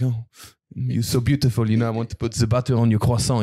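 lightly put-on French lover accent. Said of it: "every French guy is like".

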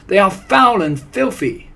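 high, loud echo of the leader; worked-up witches chorusing; eager chorus. A narrator's reading. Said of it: "chorused the English witches".

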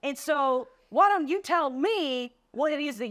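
irritated banker. Retold or imitated. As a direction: look down on the salesperson from a height. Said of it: "And he said".

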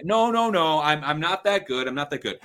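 loud, high modest refusal; fake humility. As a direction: overdo the shy protest. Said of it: "that's fake humility".

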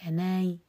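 أناي with the hamza eased toward a faint i; tashil. Shown as a demonstration. Teacher asks students how it is read, softened hamza. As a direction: say أناي without a hard final glottal stop. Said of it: "بتسهيلها".

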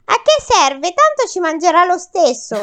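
despairing moan. Acted. Men moaning in despair.

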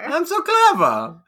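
high, slow, smug sing-song; hammed-up self-praise drawn out; mock boast. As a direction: preen over your own cleverness. Mock-boasting echo of wife.

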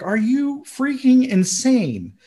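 high, slow mock outrage; incredulous onlookers. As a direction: act out appalled disbelief, drawing it out. Voicing the appalled onlookers.

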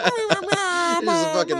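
laughing. Real, not acted. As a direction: voice cracking with laughter. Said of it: "laughing while speaking".

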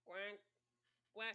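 quacking like a duck. Pretend. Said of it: "my duck impression".

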